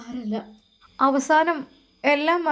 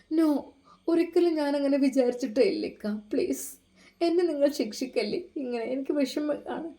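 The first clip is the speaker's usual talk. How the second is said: lightly voiced wife, higher, begging; pleading wife; 3 semitones higher than usual. Wife begs her husband not to leave, higher pleading voice. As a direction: beg him to believe you.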